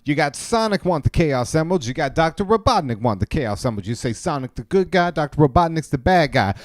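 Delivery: rally the crowd, stay with me; mock sermon. Cohost preaching Chaos Emerald conspiracy to passersby.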